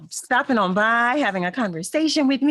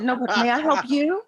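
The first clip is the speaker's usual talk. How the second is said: indignant retort; 2 semitones higher than usual. Retold or imitated. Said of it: "I was indignant".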